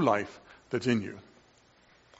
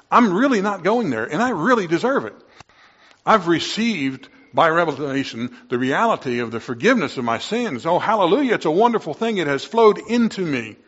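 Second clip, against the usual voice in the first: rising, louder joyful exclamation; fervent praise; 5 semitones higher, 4 dB louder than usual. Real, not acted. Preacher rejoicing to his flock, louder and higher. Preacher exults over forgiven sins.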